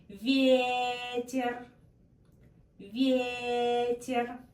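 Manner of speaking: Ветер with the first ye stressed, full and clear, second one quick. Shown as a demonstration. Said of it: "First stressed".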